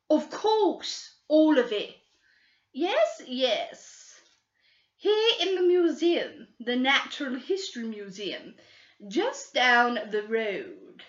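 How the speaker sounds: put-on high, slow, wheedling girl voice; greedy schoolgirl. Girl bargaining with the detectives, high and wheedling. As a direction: bargain sweetly for the reward.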